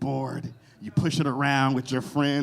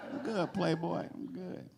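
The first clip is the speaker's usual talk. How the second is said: quiet refusal; 4 semitones higher, 7 dB quieter than usual. Retold or imitated. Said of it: "It's like".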